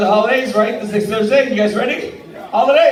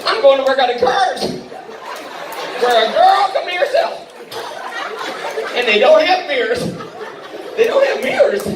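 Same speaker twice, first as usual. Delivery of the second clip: mock angry rant; 3 semitones higher than usual. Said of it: "I was like".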